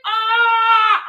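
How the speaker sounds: loud, high frustrated yell of disbelief; exasperated scream at the absurdity; exasperated shout. Real, not acted. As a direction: let out a loud, pained cry of exasperation. Exasperated outburst about begging.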